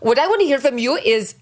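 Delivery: a touch of a probing mom; imitating Hilaria. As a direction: mimic her earnest questioning.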